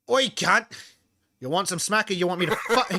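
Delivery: mock-threatening Australian Bogan yell; Bogan accent. Shown as a demonstration. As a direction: challenge them loudly in a Bogan accent. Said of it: "I don't know if I can even do a Bogan accent".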